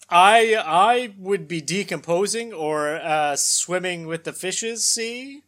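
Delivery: slow gangster drawl; mobster voice. Acted. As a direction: talk like a thirties mobster. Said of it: "as they would say".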